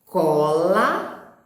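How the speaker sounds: Cola said slowly with a hard K at the start; teacher's word demo. Shown as a demonstration. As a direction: sound out Cola clearly for kids. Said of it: "Vamos ver essa outra palavrinha".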